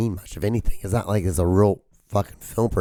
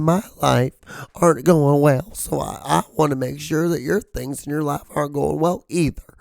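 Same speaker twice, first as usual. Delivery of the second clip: a light mock voice of a touchy online commenter, a bit higher; offended internet commenter; 4 semitones higher than usual. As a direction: play a whiny easily offended poster. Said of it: "this is what they sound like on the internet".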